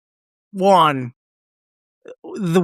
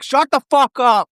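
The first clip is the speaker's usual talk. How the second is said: higher-pitched mock yell; retold yelling; 6 semitones higher than usual. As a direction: imitate someone yelling from a window, half-volume. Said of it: "yelling out at them from the window".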